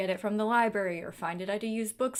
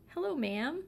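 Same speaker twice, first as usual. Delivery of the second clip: cat greeting; 6 semitones higher than usual. Real, not acted.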